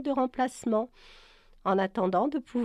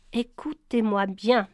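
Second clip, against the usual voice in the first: each word of "Écoutez-moi bien" set apart, a touch louder; articulating clearly; 4 dB louder than usual. Acted. Brian addressing the crew, mildly crisp articulation. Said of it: "en articulant nettement".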